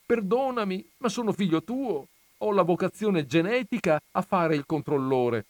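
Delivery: put-on high pleading little boy; pleading child. A narrator's reading. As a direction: beg forgiveness like a small son. Son keeps pleading.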